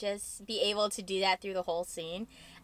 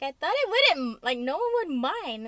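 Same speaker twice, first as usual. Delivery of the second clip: higher, louder self-justifying quote; defensive protest; 6 semitones higher, 5 dB louder than usual. Retold or imitated. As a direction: plead your case, re-enacting it in a raised pitch. Retelling own defence on set.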